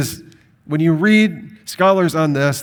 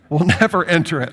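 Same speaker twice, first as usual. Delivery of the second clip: laughing; much faster than usual. Real, not acted. Laughs at his cat paraphrase.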